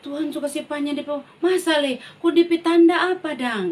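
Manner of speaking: a light touch of a doubting king; doubting question. Acted. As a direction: press God for a sign. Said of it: "Raja Hizkia dia bilang".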